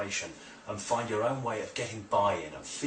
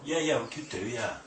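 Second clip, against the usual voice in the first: higher-pitched, noncommittal agreement; uncertain yes; 3 semitones higher than usual. Shown as a demonstration. Hypnotist imitating a client's weak buy-in, half-hearted. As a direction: go along with it without conviction. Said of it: "looking for certainty in that yes, not".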